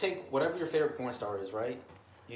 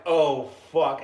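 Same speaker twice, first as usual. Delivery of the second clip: mock alarmed yell; 10 dB louder than usual. Retold kid's alarmed outburst.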